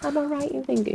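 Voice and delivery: lightly put-on naive questioning; playing innocent. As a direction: feign polite cluelessness while retelling it. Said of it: "Just playing stupid".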